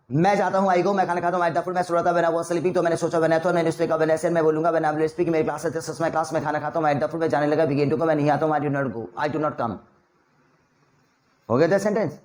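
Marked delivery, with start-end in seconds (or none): 0.1-9.8 quick drill, no pause for air; fast in one breath. Shown as a demonstration. Teacher demos ten sentences in one breath for students. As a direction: rattle Hindi-English pairs off in one breath. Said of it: "मेरी speed तेज रहेगी".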